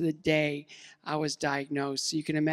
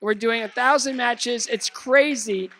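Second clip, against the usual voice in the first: normal talking voice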